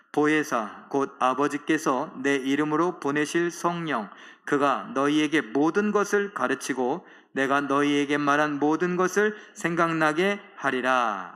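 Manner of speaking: slow, measured reading of scripture. Acted. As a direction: read the verse aloud with the congregation, unhurried. (느리고 또박또박한 성경 낭독)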